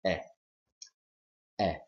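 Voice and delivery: eh as an isolated short open-mid front vowel; vowel demonstration. Shown as a demonstration. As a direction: say eh cleanly on its own. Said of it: "this is sound number nine".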